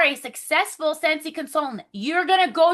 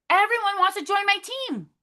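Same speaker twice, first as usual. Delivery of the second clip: repeated affirmation; 6 semitones higher than usual. Shown as a demonstration. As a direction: repeat it, more convinced. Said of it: "I want you guys to say that".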